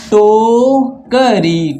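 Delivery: drawn-out, syllable by syllable; slowly sounded out. Shown as a demonstration. Teacher sounding out the word for pupils, slow. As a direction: spell it out slowly for the children. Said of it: "टोकरी में आधा का या क्या है".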